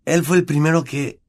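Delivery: snorting. Acted. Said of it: "bufó".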